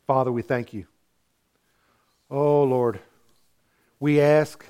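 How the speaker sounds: earnest pastoral prayer voice; closing prayer. Acted. A pastor prays over his congregation, sincerely.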